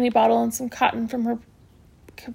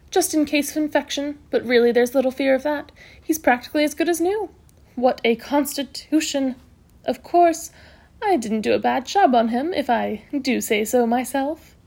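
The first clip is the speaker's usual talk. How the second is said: lively matron, pleased with the result; brisk matron, self-satisfied; 3 semitones higher than usual. Acted. Matron reviewing her patient's recovery, self-satisfied. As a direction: admire your own handiwork.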